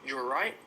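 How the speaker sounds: "right" said without its final T; "You're right" linked, ending on an open vowel; dropped T. Shown as a demonstration. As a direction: leave the T off the end of "right", rising. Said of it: "I also don't pronounce the T".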